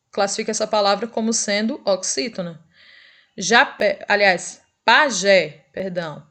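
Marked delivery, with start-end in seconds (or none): 4.8-5.7 "pajé" loud, with weight on final JÉ; final-syllable stress. Shown as a demonstration. Teacher correcting the example word, "pajé" stressed on JÉ. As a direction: hit the last syllable of "pajé". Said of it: "a última sílaba é a mais forte".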